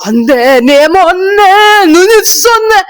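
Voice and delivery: high, loud, slow wailing gibberish like a possessed woman; eerie possessed gibberish. Retold or imitated. Retelling a dream to viewers, imitating the possessed woman's loud eerie wailing gibberish. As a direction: chant nonsense in a strange crying wail. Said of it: "अजीब अजीब चीजें बोल रही है".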